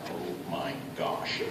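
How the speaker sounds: low, slow, hushed groan of words; pained. Retold or imitated. Man trying to walk on a broken toe, pained. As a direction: softly re-enact barely standing through pain. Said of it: "It was so painful".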